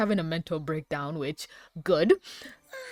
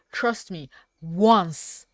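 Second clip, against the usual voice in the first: very slow, each word stretched, a little louder; drawn-out plea; 5 dB louder, much slower than usual. Retold or imitated. Cat Noir begging Ladybug, slow drawn-out plea. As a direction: plead it slowly and deliberately. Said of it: "He's like".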